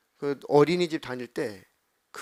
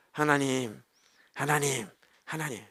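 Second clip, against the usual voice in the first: choked-up prayer; 3 semitones lower, 5 dB quieter than usual. Retold or imitated. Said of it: "감정이 차오르면 기도가 장황하게 안 나와요".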